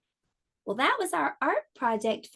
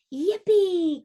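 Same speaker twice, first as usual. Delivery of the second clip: high, loud squeal of joy; a frog kid thrilled about his new bike; excited cry; 8 semitones higher, 6 dB louder than usual. A narrator's reading. Froggy cries out to dad in joy, high and loud. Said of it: "cried Froggy".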